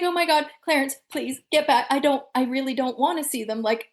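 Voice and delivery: begging half-laughing, playing up the fear; retold panicked pleading. Pleading with the eighty-four-year-old guide, mock panic. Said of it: "So I'm like".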